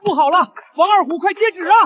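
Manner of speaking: lightly voiced high eunuch call; a court eunuch passing on an order; palace eunuch. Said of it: "我怎么听到李公公的声音". (太监传旨的腔调)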